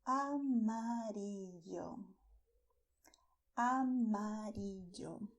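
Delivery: amarillo drawn out slowly, stressed long i; Spanish amarillo. Shown as a demonstration. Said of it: "the color yellow in Spanish is called".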